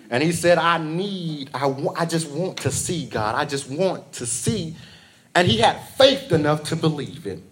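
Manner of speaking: rhythmic preacher cadence; fervent church sermon delivery; sermon preaching. Acted. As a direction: preach it to the congregation. Preaching at full force.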